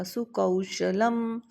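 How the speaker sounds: slow सुकौशलम, औ glided as "a-oo"; सुकौशलम syllable by syllable, very slowly; stressed diphthong औ. Shown as a demonstration. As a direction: draw out सुकौशलम: su-ka-oo-sha-lam. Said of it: "मैंने यहाँ पे औ बोला था".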